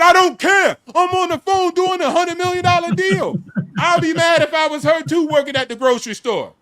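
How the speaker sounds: high, loud acted outburst; hyped-up, indignant boast; exasperated retort. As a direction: shout it down like an interrupted big shot. Acts out brushing off his friend.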